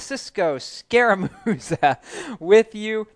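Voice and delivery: chuckling through the words; fighting back laughter, slowed down; trying not to laugh. Real, not acted. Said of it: "I'm chuckling because Cisco's being funny".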